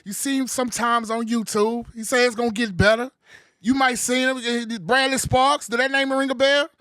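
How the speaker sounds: loud, high ring-announcer build; hype man intro. Acted. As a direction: pump the crowd like a boxing intro. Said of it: "the best hype man in this damn country".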